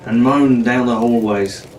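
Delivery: lively adventure read-aloud; storyteller building suspense; story narration. A narrator's reading. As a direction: read it like a bedtime adventure serial. Reads adventure novel aloud.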